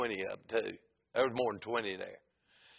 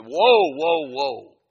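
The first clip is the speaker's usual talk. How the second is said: very loud, high-pitched holler; frantic stopping shout; 12 semitones higher, 11 dB louder, much slower than usual. Retold or imitated. Man cutting off the prayer, frantic shout. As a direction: yell to halt him at once. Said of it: "he stopped me like that".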